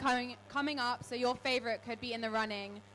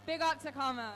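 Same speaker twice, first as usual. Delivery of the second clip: stage introduction; 3 semitones higher than usual. Acted. Reads DJ introduction to crowd.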